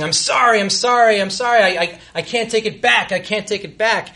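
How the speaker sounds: mildly hammed-up distraught pleading; retold sobbing apology. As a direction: imitate a tearful, repeated apology. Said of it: "she's sobbing".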